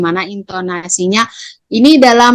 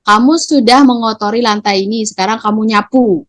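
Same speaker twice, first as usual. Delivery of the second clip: a hint of a scolding teacher; teacher imposing a chore; mild strict order; 2 semitones higher than usual. Shown as a demonstration. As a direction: order the pupil to sweep. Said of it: "Tidak boleh".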